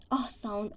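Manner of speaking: "ah" drawn out slowly on its own; extra ah sound. Shown as a demonstration. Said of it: "there is an extra".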